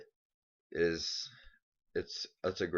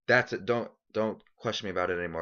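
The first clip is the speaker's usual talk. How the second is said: mock defiant; 2 semitones higher, 4 dB louder, faster than usual. Real, not acted. Defiant outburst at critics.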